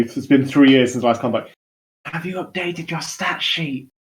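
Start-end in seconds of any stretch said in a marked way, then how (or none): 2.0-3.9 bureaucratic god voice. Retold or imitated. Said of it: "she just comes up to a dream".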